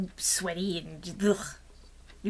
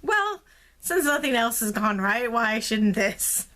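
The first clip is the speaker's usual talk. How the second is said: resigned sarcasm; 2 semitones higher, 3 dB louder, slower than usual. Retold or imitated. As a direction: drag it out like nothing could go right anyway. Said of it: "Then it was just like".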